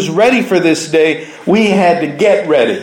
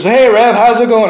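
Hey, Rev called out a bit louder; friendly greeting; 4 semitones higher, 4 dB louder than usual. Retold or imitated. Coworker greeting the preacher in the hall, cheery and louder. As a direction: call out a cheery hello. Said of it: "she says".

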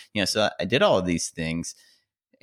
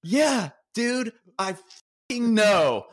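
laughing; 12 semitones higher, slower than usual. Retold or imitated. Laughing reply to the coach.

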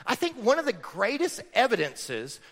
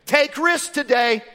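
mock mom line; 5 semitones higher, 7 dB louder, slower than usual. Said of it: "your mom probably didn't say".

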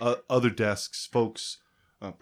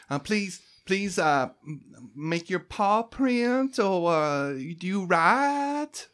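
high, sing-song receptionist voice; chirpy clerk; 6 semitones higher than usual. Acted. Debbie registering new arrivals, chirpy and high. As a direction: run through the forms like a cheerful desk clerk.

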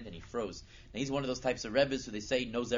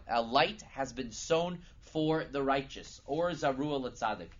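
slow, raised proclamation; higher, louder, measured recital; proclaimed out loud; 4 semitones higher, 5 dB louder, slower than usual. Acted. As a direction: announce it loudly and deliberately. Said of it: "He'll say out loud".

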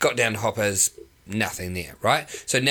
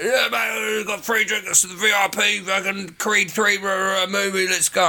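imitating Joshy; 8 semitones higher than usual. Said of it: "And he's like".

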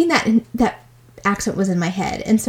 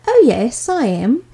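put-on lightly higher-pitched British accent; 4 semitones higher, 4 dB louder than usual. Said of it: "I was doing a British accent".

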